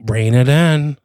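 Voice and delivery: brief, controlled warning; restrained warning. Acted. Partner warning the detective not to blow cover, brief restrained warning. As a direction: rein in your partner with a short order.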